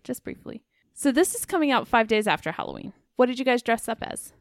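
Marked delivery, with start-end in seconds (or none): 0.0-0.6 breathy whispered aside. Shown as a demonstration. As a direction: whisper it softly. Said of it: "Just briefly. (repeat)".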